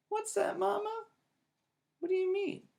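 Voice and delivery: put-on high, startled child; surprised. A narrator's reading. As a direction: caught off guard by the hint. Sister shocked by Mama's hint.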